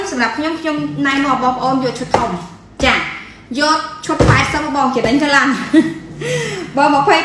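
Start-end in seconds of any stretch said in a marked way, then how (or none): 5.5-6.7 high laugh. Real, not acted. Laughs after pushing big set.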